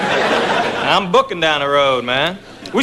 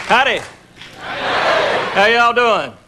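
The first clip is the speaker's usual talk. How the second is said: easygoing Appalachian accent. Real, not acted. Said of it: "so I do talk this way".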